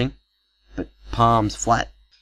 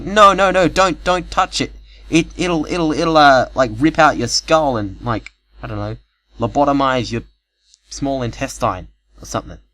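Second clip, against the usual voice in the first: much higher, louder, stammering alarm; man frantically warning the girl not to touch it; panicked warning; 6 semitones higher, 8 dB louder than usual. Retold or imitated. Man panicking, stopping her.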